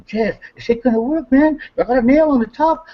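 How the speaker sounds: high, mocking voice imitating himself warning Jess; half-laughing mock warning. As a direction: raise the voice high and scoff. Retold argument, warning Jess.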